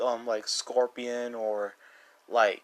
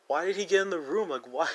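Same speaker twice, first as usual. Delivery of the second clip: high, baffled mock outcry; shocked disbelief; 5 semitones higher than usual. Retelling his own reaction to Ned, baffled and high. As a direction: squeak out the confusion at the intruder.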